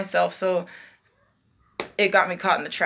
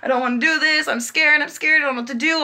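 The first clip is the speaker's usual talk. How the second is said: retold panicked crying; 4 semitones higher than usual. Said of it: "I was crying, crying".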